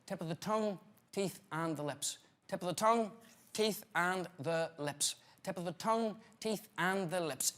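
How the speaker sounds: quiet drill reply. Shown as a demonstration. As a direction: mumble the exercise back timidly. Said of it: "now, when you're ready".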